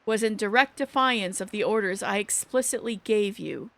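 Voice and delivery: subdued, formal game dialogue; composed deputy commander. Acted. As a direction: reprimand them calmly, voice held down. Voices stern deputy commander and others.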